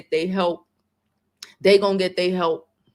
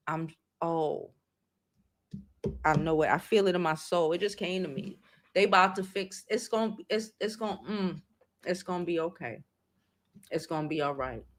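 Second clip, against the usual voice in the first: emotional; 7 dB quieter than usual. Real, not acted. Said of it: "I get emotional".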